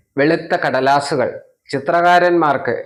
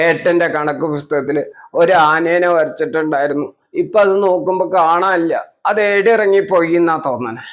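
put-on tearful child; 3 semitones higher than usual. Child explains to mother, crying.

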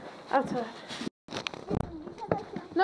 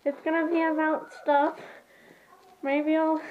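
squeaky helium-filled voice; 2 semitones higher than usual. Real, not acted. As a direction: talk right after a helium breath. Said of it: "So I'm gonna breathe the helium".

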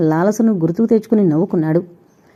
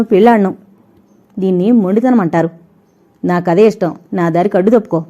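contemptuous refusal; faster than usual. Acted. Heroine refuses blackmail angrily.

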